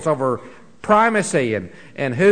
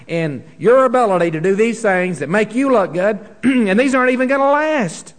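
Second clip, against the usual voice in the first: Paul paraphrased with raised rebuking voice; mock rebuke from Paul; 5 semitones higher than usual. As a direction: scold them as Paul would, rising up. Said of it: "And he says".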